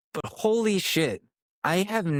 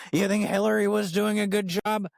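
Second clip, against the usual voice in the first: normal talking voice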